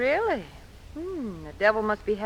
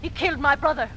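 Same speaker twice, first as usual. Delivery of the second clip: indignant scolding; 3 semitones higher, 4 dB louder, faster than usual. Acted. Deborah angrily scolds Cranston.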